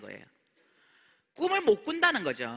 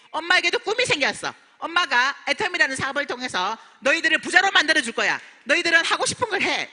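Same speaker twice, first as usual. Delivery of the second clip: raised, eager announcement to the family; excited exclaiming; 6 semitones higher, 4 dB louder than usual. Retold or imitated. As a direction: proclaim the new dream to your kids, a bit higher and louder. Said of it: "이렇게 막 외쳤어요".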